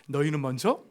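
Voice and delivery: 예수님 말씀을 조금 더 크게 엄숙히 인용; quoting Jesus. Acted. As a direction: read out the verse with lightly voiced authority. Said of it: "예수님도 이렇게 말씀하시는 거예요".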